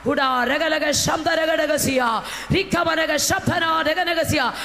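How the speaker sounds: fervent glossolalia in prayer; speaking in tongues. Real, not acted.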